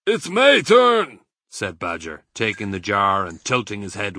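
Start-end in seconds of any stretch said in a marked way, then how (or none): 0.1-1.2 eager claim. Acted. Badger grabs the jar.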